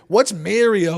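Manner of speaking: "Mario" said MARE-ee-oh; puzzled question with "Mario" like "mare-io"; mimicked MARIO. Podcaster imitating baffled listeners, "Mario" as MARE-ee-oh. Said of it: "That's what everyone is like".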